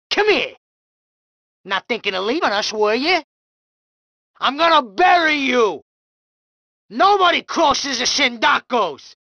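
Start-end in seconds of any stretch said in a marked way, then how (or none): 4.4-9.1 threatening shout. Acted. Thug threatening enemy.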